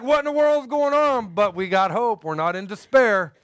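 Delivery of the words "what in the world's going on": much higher confused exclaim; bewildered. Retold or imitated. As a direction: sound totally baffled. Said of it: "We're like".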